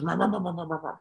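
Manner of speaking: mock rumbling truck "rah" sounds, fading; truck noise imitation. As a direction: imitate a passing truck, trailing off. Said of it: "it goes".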